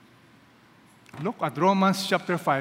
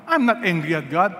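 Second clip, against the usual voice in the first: mock quote; 4 dB louder than usual. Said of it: "many people say".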